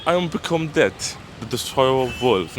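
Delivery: grand movie line in a would-be American accent; attempted American accent. Shown as a demonstration. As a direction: try American, slipping into British. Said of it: "No, that's British".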